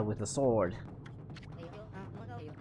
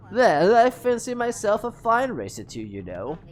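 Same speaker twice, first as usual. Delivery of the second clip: put-on British accent; 5 semitones higher, 4 dB louder than usual. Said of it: "British accent".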